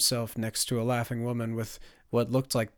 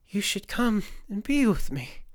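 high-pitched eerie invitation; high, beckoning apparition; beckoning corpse woman; 10 semitones higher, 3 dB louder than usual. Acted. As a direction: lure the listener in.

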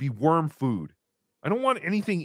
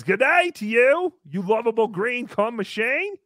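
lightly put-on Australian accent, higher; 5 semitones higher than usual. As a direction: do a playful Aussie accent, pitched up. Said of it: "your Australian accent".

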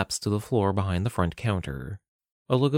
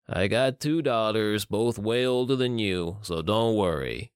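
put-on slow, mildly reassuring old tough guy; lightly voiced older criminal. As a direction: put her at ease, slowly. Older man reassures Madison.

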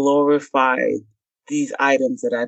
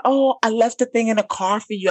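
fake casual; 7 semitones higher than usual. Excuse to escape.

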